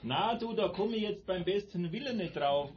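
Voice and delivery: high squeaky imitation. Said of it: "Und sagt mit piepsiger Stimme".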